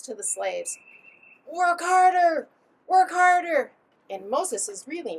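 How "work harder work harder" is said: loud, raised overseer's order; harsh taskmaster shout, pitched up; barked command. Acted. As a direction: bark it at the workers. Acts overseer ordering the slaves.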